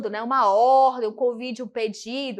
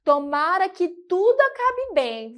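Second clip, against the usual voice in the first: exclamatory wish; 5 semitones higher than usual. Shown as a demonstration. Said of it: "posso também fazer o quê? Um ponto de exclamação".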